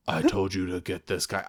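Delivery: bored Seagal. Retold or imitated. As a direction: sound like you could fall asleep mid-line. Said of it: "I can't sound bored enough".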